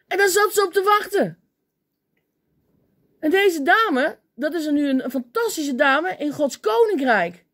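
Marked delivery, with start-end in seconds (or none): none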